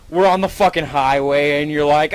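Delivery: ordinary talk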